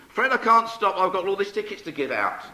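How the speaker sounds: high, hurried-sounding brush-off; brisk excuse. Acted. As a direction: toss it off high and busy. Visitor brushing off the trapped woman.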